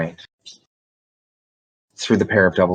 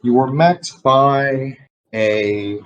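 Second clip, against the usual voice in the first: game master narration; 3 semitones higher than usual. Acted. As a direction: paint the room for the players. GM scene narration.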